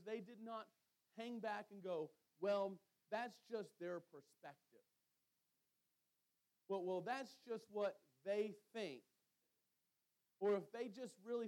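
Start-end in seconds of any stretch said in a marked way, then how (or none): 2.4-9.0 slow, louder mock shrug of a reply; dismissive brush-off. Church leaders dismissing the widows' complaint, mock dismissive. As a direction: wave the complaint away, drawn out.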